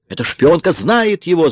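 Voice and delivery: high-pitched agitated cry; wailed accusation. A narrator's reading. Kara points at Marion, yelling. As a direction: wail the accusation, pitch soaring. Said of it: "завопила Кара".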